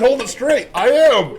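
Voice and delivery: bossy mom voice through a laugh; laughing mock mom. Retold mom at the photo.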